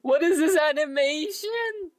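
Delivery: shocked by what just popped up on screen; surprised outburst. Real, not acted. Streamer reacting to an unexpected game animation, high surprised outburst.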